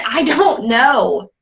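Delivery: slow, drawn-out retold answer; helpless insistence. Wife answers exasperated husband on the phone, helplessly insistent. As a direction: stretch each word out in frustration.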